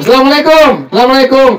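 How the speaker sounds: mock a slurred greeting; mocking wrong salam. Teacher mocking how some people slur the salam. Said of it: "Setan lo".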